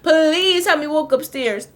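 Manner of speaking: slow, high, slurred begging; drunk pleading. Retold or imitated. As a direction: beg the guard like a drunk. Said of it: "I'm like".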